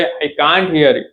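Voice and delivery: slow, word by word; slowly, so students can repeat; slow teaching read. Shown as a demonstration. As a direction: spell it out slowly for learners. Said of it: "શું કહેવાય?".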